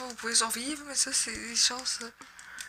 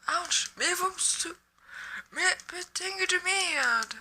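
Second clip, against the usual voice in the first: higher, slowed curse as she gets hit; frustrated outburst; 6 semitones higher, slower than usual. Real, not acted. Gamer getting hit mid-match, a frustrated higher curse. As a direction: snap out the swear at the game.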